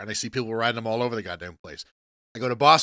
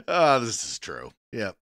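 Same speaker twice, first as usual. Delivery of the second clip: ordinary talk, nothing marked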